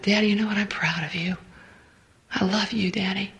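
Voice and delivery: soft, near-whispered words to Daddy; tender. Retold or imitated. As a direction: speak it gently, like comforting a child. Telling her father she loves him.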